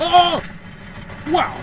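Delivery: surprised gasp. Real, not acted. Sudden shock in game.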